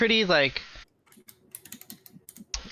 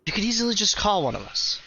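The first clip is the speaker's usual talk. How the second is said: higher, fast, lightly voiced chiding; older elf, chiding; 7 semitones higher, faster than usual. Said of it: "He's like".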